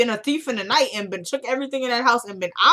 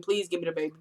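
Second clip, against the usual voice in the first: mild pleading; 3 semitones lower, 6 dB quieter, faster than usual. Retold or imitated. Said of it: "pleading, pleading".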